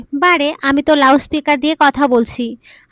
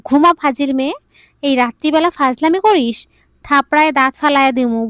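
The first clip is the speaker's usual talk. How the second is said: scolding bark. Retold or imitated. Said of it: "দিলাম এক ধমক".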